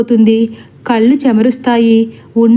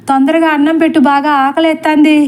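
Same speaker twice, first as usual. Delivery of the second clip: pitched high, calling loudly for food; hungry loud call; 5 semitones higher than usual. A narrator's reading. Hungry husband calls his wife from the door, loud high call. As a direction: holler for dinner from the doorway, pitched high. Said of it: "అని గట్టిగా పిలుస్తాడు".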